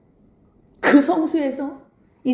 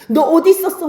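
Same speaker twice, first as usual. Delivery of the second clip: higher, louder scolding question; angry, startled mother; 5 semitones higher, 5 dB louder than usual. Retold or imitated. Mother finds her lost son, acted angry and startled. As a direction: imitate an upset mother's outburst. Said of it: "엄마는 막 화가 나가지고 놀래가지고".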